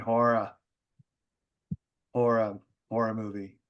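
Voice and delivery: put-on Boston accent, HORROR as HAW-ruh; obnoxious Boston accent. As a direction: drop the r's like an obnoxious Bostonian. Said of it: "talking in an obnoxious Boston accent".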